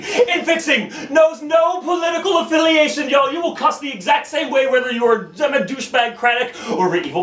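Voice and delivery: driving, emphatic spoken-word delivery; slam poetry. Acted. Poet declaring infixing universal, slam poetry. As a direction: build to punched, high declarations for the crowd.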